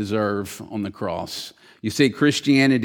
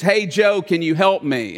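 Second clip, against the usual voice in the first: higher calling out; 3 semitones higher than usual. Retold or imitated. Man in hole calls his friend.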